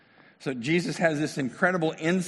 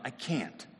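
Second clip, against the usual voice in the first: emotional rant; 4 semitones higher than usual. Acted. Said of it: "There was probably emotion to his response".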